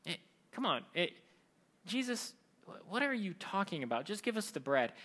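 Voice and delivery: softly voiced mock complaint; grumbling. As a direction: grumble under your breath, exasperated. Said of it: "people are grumbling, they're like".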